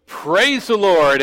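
high, slow, drawn-out cry of joy; joyful shout. Retold or imitated. Lady finds the groceries on her porch, joyful drawn-out shout. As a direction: shout it for joy, stretching each word. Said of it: "she shouts for joy".

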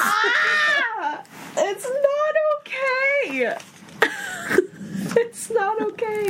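high, slow wail through laughing tears; real laugh-cry protest; crying out that it's not okay; tearful cry. Real, not acted. Overwhelmed by sad scene.

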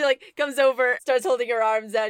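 ordinary delivery

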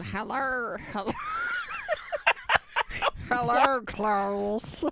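half-laughing mock Muppet Hannibal; Hannibal Meatwad. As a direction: say it like a goofy Muppet villain. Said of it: "Hannibal Meatwad?".

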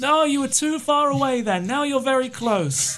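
high, relieved voice of a parched survivor; stranded pilot. Acted. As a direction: play the stranded pilot high, grateful and desperate.

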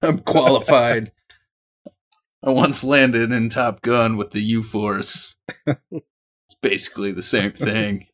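slow, lightly put-on military voice. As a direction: speak slowly like a soldier reporting. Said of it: "That's my military voice".

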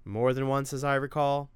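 a mother scolding her son about morning video games; nagging mother. Acted. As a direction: lay down the house rules. Narrator voices the mother.

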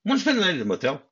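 mock-suggestive Harry; cheeky offer. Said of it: "looks at her and goes".

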